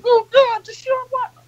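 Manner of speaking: high wailing whine of a fan suddenly worried; overdone fake despair about a star; mock panicking fan. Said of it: "Now everybody's like".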